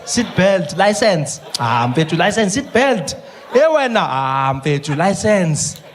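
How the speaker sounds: cop and driver trading lines in South African voices; a friendly cop and a pleading driver bargaining; mock roadblock haggling.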